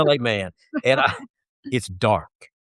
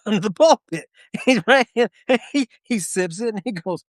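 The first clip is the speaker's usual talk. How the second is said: ordinary delivery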